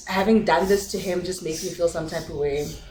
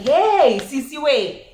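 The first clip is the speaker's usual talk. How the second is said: retold urgent holler; calling out; 4 semitones higher, slower than usual. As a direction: call out to stop your sister.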